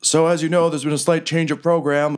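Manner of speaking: high, booming fight-night announcer; ring announcer. Acted. GM as Riker opening the fight to the crowd, announcer voice. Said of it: "And he's like".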